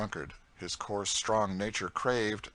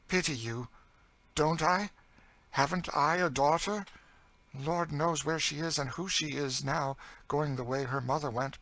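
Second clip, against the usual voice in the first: raised, bitter outcry; higher, impassioned story voice; anguished older captive character; 8 semitones higher, 4 dB louder than usual. Acted. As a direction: throw the plea back with anguish. Cassie's anguished outburst.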